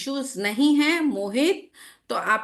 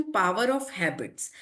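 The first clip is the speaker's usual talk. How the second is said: each word drawn out slowly; slow title announcement; 4 semitones lower, much slower than usual. Real, not acted.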